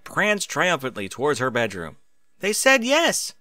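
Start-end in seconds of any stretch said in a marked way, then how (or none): 2.4-3.3 high, loud, overjoyed crow. Acted. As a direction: burst in crowing the good news. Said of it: "she crowed".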